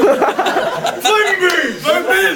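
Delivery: high, drawn-out creature call; monster's battle cry. Acted. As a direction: call it out slowly, hammed up.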